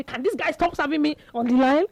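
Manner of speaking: high, mock-exasperated gripe; frustrated complaint. Player turns to his wife over a serve, mock frustration. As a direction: whine about it like a beaten player. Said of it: "he dey frustrated".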